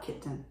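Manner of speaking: kitten with the second vowel reduced; natural pronunciation. Shown as a demonstration. Mother saying the word around her child, natural pronunciation. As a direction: say kitten as KIT-n. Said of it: "お母さんがkittenと言っている".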